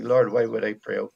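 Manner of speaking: normal talking voice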